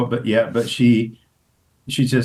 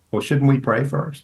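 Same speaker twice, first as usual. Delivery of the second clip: higher put-on voice, mildly chiding; Denzel's gentle suggestion; 4 semitones higher than usual. Host imitating Denzel suggesting they pray first. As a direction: nudge her kindly.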